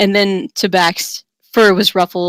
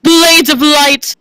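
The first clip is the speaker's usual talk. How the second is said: slow, louder battle cry, higher; proclaimed; 7 semitones higher, 5 dB louder, much slower than usual. Acted. Paladin summons a sword between fighters, booming slow cry. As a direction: call the spell out grandly. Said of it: "proclaimed the paladin".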